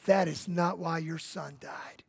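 soft, slow whisper of comfort. Retold or imitated. Pastor whispering comfort to the grieving mother. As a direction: breathe it gently, like a secret.

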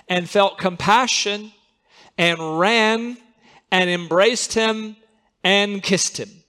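slow, deliberate scripture reading. Acted. Preacher reads the father's welcome to the congregation, slow and deliberate. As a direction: savour each verb of the verse.

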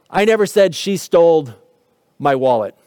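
NEVER stressed, the rest falling away. Shown as a demonstration. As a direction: lean on the word NEVER. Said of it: "even just sometimes in the words we emphasize".

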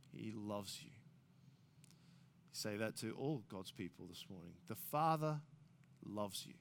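quiet, sincere comfort; tender reassurance. Acted. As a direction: say it gently to God's people. Pastor tenderly reassuring congregation.

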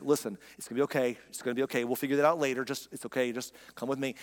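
calming reassurance. Retold or imitated. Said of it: "he's trying to calm her down".

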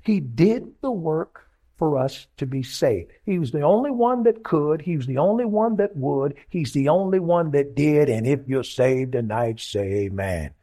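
drawn-out, rhythmic sermon cadence; emphatic preaching. Acted. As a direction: preach it in parallel beats, falling to the amen. Preaches to the congregation.

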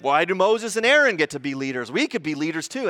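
mock grumbling, pitched slightly up; indignant mock grumble; grumbling complaint. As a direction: voice a resentful follower's complaint. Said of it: "they just grumbled and grumbled".

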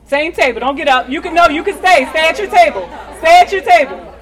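calling out. Real, not acted. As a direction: project to the whole hall. Calling out over the room.

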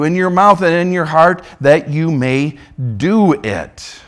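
steady, earnest reading of scripture. Acted. Preacher reading Deuteronomy aloud to the congregation, earnest scripture reading. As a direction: read the passage out to the congregation, full voice.

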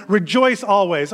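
slow, deliberate verse recitation; leading a recitation. Shown as a demonstration. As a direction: say it slowly for others to learn. Leading congregation in memorizing a verse.

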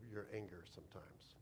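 soft whisper to end the thought; whispered closing line. Real, not acted. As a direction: let it drop to a whisper. Sermon punchline, closing thought.

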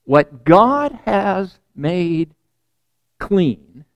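very slow, weighty pronouncement; solemn divine voice. Retold or imitated. The voice answers Peter in his dream, slow and solemn. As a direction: space the words out solemnly. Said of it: "The voice says".

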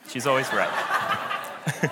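slow, laughing repeat. Real, not acted. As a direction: chuckle it out slowly.

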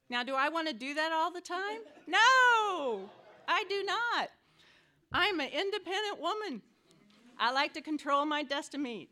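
loud, high-pitched indignant protest; hammed-up refusal to obey; mock defiance. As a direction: belt it out like a stubbornly independent woman. Preacher acts out her own defiance.

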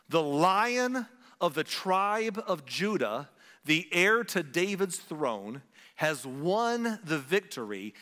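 slow dramatic scripture read. Acted. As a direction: read it out like a proclamation. Reading scripture slowly.

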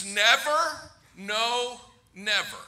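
"never, no, never" as separate beats, falling at the end; emphatic denial. Shown as a demonstration. Preacher explaining Peter's word, emphatic "never, no, never". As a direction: space out each "never" and the "no" for emphasis. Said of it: "It's so emphatic".

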